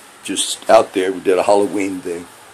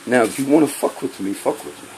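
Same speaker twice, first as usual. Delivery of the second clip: menacing whisper; 4 semitones higher than usual. Real, not acted. Challenging the cops directly.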